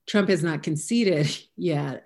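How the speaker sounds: a short anxious chuckle mid-sentence; nervous laugh. Real, not acted. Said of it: "I just have this nervous laugh".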